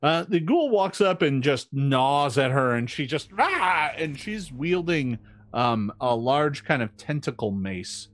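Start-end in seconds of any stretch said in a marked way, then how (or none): 3.4-3.9 short acted "ah" of alarm, raised in pitch; brief mock cry of pain. Game master voicing a woman gnawed by a ghoul, pained cry.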